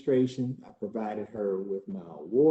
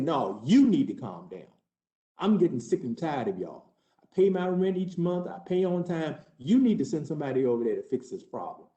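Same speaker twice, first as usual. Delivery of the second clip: heated comeback; 3 semitones higher than usual. Retold or imitated. Tenant firing back at the agent: heated retort. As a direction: still raised and hot, speeding up at the end.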